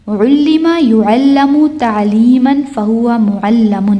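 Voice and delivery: slow recital, "علم" as ullima, "معلم" as mu'allamun; passive forms. Shown as a demonstration. Teacher drills passive line, slow recital with "علم" as ullima. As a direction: recite "يعلم" as yu'allamu, "معلم" ending lamun. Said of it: "یہ یاد کرنا ہے".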